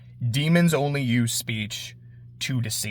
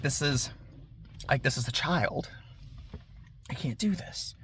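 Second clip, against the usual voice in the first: whispered, horrified hesitation; hushed; 14 dB quieter than usual. Retold or imitated. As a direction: drop to a shaken whisper, he can't go through with it. Himmel balks at killing child.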